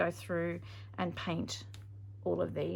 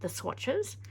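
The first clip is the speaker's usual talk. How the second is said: mouth full. Real, not acted. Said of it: "I've got the paintbrush in my mouth now".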